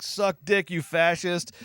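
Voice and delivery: high, loud rude heckle; imitated heckler yell. Imagined heckler to Reagan, mock yell. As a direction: shout it like an angry protester. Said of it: "what a heckler would actually say".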